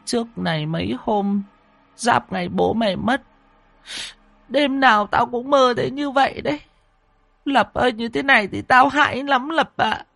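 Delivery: put-on high, choked old woman's voice; words catching with grief. Grandmother choking up as she tells her son, high voiced. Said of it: "Bà Tu lại nghẹn ngào".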